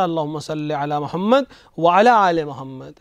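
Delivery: "وعلی آل" with the "ala" said before "آل"; repeated preposition. Shown as a demonstration. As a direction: say "wa-ala aale" in "وعلی آل محمد". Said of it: "حرف جر کو تکرار ہونا چاہیے".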